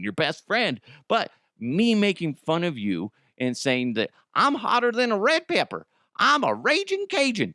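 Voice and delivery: high, hammed-up scolding; mock outrage at an old coworker; mock indignant rant. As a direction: tell him off like a diva.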